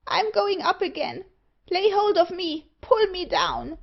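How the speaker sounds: high, urgent dwarf cries; screaming. A narrator's reading. Old Parr begs to be pulled down, screaming. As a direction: cry out in high panic for rescue. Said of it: "screamed Old Parr".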